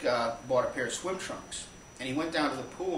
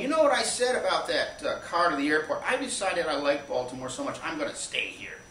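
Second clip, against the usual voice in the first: Mike; 3 semitones higher than usual. Retold or imitated. Mike on the phone declaring he'll stay, giddy. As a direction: burst out high, then ease down.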